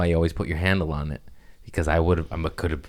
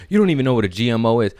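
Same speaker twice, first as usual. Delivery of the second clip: mocking critics; 3 semitones higher, 4 dB louder, much faster than usual. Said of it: "people came at me".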